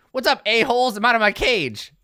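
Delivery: loud, high crowing goblin; brash goblin shout. Acted. Freed goblin announcing herself to the next room, brash shout. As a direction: crow it out to the whole room.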